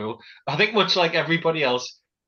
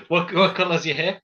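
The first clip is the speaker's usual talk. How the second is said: put-on German accent; 4 semitones higher than usual. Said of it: "in a German accent".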